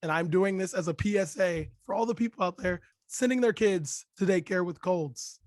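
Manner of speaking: hoarse from a cold; lost voice, raspy and strained; raspy whisper. Real, not acted. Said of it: "this is what you get".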